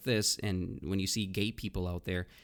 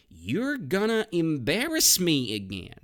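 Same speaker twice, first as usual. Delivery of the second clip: exasperated complaint; 8 semitones higher, 5 dB louder than usual. Shown as a demonstration. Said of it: "The next phrase is".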